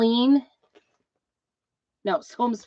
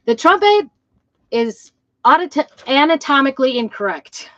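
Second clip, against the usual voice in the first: indignant exclaim; 4 semitones higher, 6 dB louder than usual. Real, not acted. Trumpet player objects to design.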